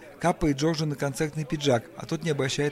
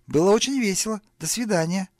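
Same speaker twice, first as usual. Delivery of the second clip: high, loud cheery farewell; beaming smile; 6 semitones higher, 5 dB louder than usual. A narrator's reading. Paul takes leave of glaring guests, beaming brightly. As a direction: smile broadly through the goodbye. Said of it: "одарив присутствующих лучезарной улыбкой".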